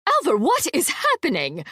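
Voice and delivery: high, loud call up the stairs; shouting a name. A narrator's reading. Aunt Malva shouting for her son on the stairs, loud. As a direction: call out sharply, full volume. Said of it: "shouted Aunt Malva".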